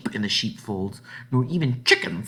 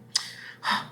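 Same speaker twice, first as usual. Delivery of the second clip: delighted gasp; 4 dB quieter than usual. Acted. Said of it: "cried out happily".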